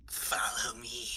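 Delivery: put-on slow, soft old dwarf voice; decrepit old dwarf. Old dwarf leading strangers out, slow and hushed. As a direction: draw it out quietly like a withered old miner. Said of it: "he's like".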